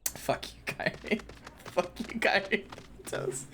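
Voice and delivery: breathy playful whisper. Acted. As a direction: whisper the insult teasingly. Teasing swear whispered at friend.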